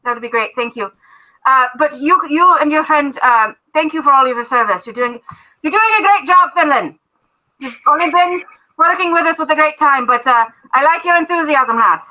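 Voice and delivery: a hint of a hearty captain giving orders; dwarf captain thanking his recruit, lightly voiced; Everard the dwarf captain.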